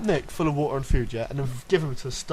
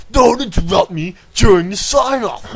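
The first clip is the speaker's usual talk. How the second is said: catchphrase; 6 semitones higher, 9 dB louder than usual. Retold or imitated. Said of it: "Apparently I say that".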